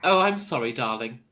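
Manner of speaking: mock British apology, falling away; lightly hammed-up British "darling"; stereotypical British accent. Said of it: "my stereotypical British accent".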